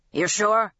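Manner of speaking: put-on old Red snaps the question at Lady Jane; crusty old man barking. A narrator's reading. A lightly voiced crusty old man barking. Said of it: "he barked".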